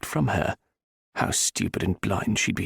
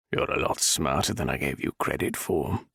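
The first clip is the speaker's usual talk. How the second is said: menacing nobleman; 5 semitones lower than usual. Acted. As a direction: purr the compliment as a threat. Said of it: "the Viscount said".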